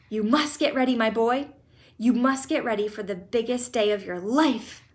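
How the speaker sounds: loud, eager rattle of orders; excited orders. Acted. Grandpa Joe ordering Charlie to get ready, loud and eager. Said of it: "shouted Grandpa Joe".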